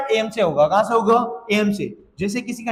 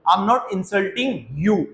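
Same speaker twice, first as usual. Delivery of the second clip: slow, careful answer for learners; slow model answer; much slower than usual. Shown as a demonstration. Teacher voicing the other person's answer slowly. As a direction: stretch each word out. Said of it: "नहीं, मैं तुम्हारी बेइज्जती नहीं कर रहा हूँ".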